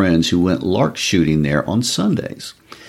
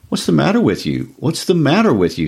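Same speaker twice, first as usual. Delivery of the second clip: faltering husband; 8 semitones higher than usual. Acted. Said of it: "he faltered".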